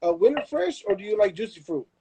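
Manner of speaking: jumps way up high for a silly sing-song question; mock high voice. Telling a friend he doesn't care, mock high voice. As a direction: squeak it out like the choice is trivial. Mocking a trivial either-or choice.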